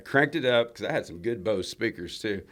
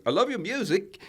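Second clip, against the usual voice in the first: put-on Nicole Kidman's accent; 12 semitones higher, 5 dB louder than usual. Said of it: "that thick Australian accent".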